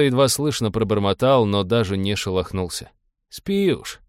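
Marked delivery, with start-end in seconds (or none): 3.3-4.0 higher-pitched, kindly grumble; good-natured grumble. A narrator's reading. Pilot to passed-out captain, good-natured grumble. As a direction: grumble it fondly, pitch jumping up. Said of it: "добродушно буркнул пилот".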